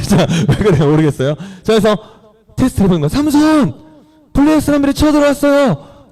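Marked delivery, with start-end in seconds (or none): 3.1-6.1 high-pitched urgent calling out; acted alarm call. Delilah warning Samson of attackers to test him, high alarm call.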